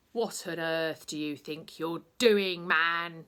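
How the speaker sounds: loud angry demand. Acted. Head of college confronts Bulk, loud and demanding. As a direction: confront him loudly. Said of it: "he demanded".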